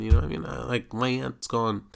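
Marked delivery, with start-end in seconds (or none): none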